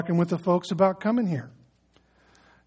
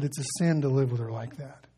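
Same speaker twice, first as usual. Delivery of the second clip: soft, gentle rebuke, a bit lower; lovingly; 5 semitones lower, 6 dB quieter than usual. Retold or imitated. Pastor gently telling a young convert the truth, softly. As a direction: tell a hard truth kindly. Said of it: "he said it lovingly".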